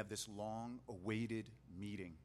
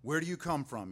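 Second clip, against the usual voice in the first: loud, higher, rough challenge; rough demand; 5 semitones higher, 10 dB louder than usual. Acted. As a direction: bark it at the strangers. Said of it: "spoke roughly to them".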